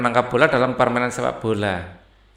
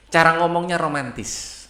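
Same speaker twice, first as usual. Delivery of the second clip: Sundanese romantic lilt; 4 semitones higher than usual. Shown as a demonstration. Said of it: "ngomongnya itu romantis".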